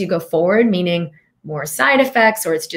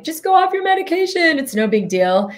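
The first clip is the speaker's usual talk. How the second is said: mock careless advice; 9 semitones higher than usual. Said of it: "I'm not gonna tell anybody, like".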